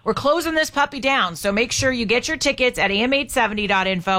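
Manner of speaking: upbeat host calling out the contest winner; radio host announcing the ticket winner to listeners, upbeat announcer read; radio giveaway announcer. Acted. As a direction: sell the prize like a radio host.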